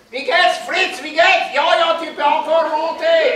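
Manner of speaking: high, bouncy Swiss German greeting; Swiss German accent. Acted. Bernese climbers greeting in German.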